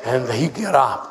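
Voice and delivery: chuckling through the story; laughing while telling. Real, not acted. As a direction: let a laugh run under the words.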